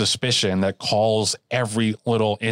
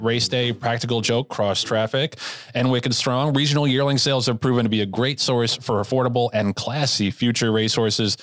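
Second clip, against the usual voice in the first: upbeat sponsor read, raised pitch; 3 semitones higher than usual. Acted. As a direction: announce it like a radio ad. Reads sponsor announcement.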